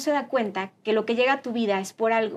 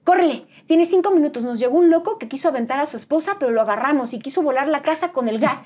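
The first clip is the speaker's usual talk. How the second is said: bossy phone orders; 2 semitones higher than usual. Retold or imitated. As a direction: bark urgent orders down the phone. Jefa gritando órdenes por teléfono. (jefa dando órdenes con prisa, voz alzada)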